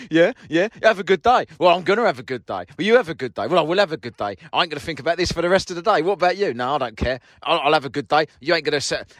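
mock tit-for-tat bickering; childish squabble. Two men trading good days, mock childish bickering. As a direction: play both sides like squabbling kids. Mocking the childish checkout argument.

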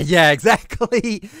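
laughing. Real, not acted. Friends guess his word, he laughs.

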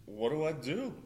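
mild panicky pleading, questions lifting in pitch; retold freak-out. Injured volunteer wondering how to find a doctor, lightly freaking out. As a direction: retell a mounting fret, lightly acted. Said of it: "I'm freaking out".

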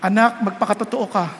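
ordinary talk

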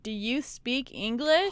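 slow, spelled-out mock question; condescending. Rude customer to struggling worker, condescending. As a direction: draw out each word patronizingly.

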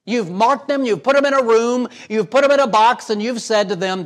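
rising, emphatic sermon rebuke; preaching at full force. Acted. Preacher warning the congregation not to give up on people, forceful. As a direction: press the point hard from the pulpit.

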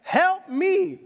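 put-on a boy yelling at the idle lifeguard; desperate demand. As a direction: demand he get you out now. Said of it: "my tone changes".

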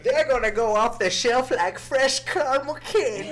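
put-on high, loud old-timey prospector voice. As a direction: hoot it like a gold-rush codger. Continues old-timey bit.

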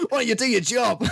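loud, high mock complaint; retold indignation. Acted bar quarrel from film.

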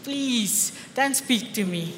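put-on drawn-out dismissive Afrikaans accent; slow, hammed-up Afrikaans-accented brush-off. Congregant brushing off the one giving a word, Afrikaans accent. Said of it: "you know, that Afrikaans accent".

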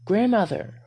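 high, loud call through the house. A narrator's reading. Veronica bursting in, calling for grandmother, loud.

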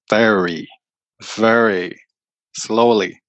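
slow, stretched "very, very slowly"; showing how slowly he talked; drawn-out very. Shown as a demonstration. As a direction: drag out each very with gaps. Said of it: "with about three seconds between each word".

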